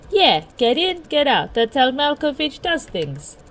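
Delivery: high, forceful character voice; brusque mobster-style persona. Acted. John to companion about the plan, brusque bravado. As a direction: lay down the plan as a big tough character. Plays John's Malkovich persona.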